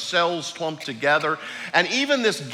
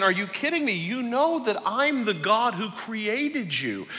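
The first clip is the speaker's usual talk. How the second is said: voicing God; 6 semitones higher than usual. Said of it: "but for saying".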